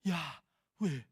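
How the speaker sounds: Yahweh exhaled as a mock breath sound. Teacher imitating the breath theory to ridicule it. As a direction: sigh the name Yahweh out on the breath. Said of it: "Mana ada orang Yahweh begitu".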